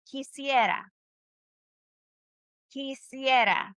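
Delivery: slowly syllable by syllable; slow model word. Shown as a demonstration. Teacher slowing for the class to repeat. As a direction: lay it out slow for them to copy. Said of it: "Say it with me".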